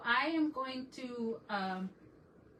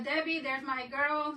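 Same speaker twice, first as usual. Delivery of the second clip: excited greeting; 3 semitones higher, 3 dB louder than usual. Real, not acted. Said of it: "If I sound like I'm shouting".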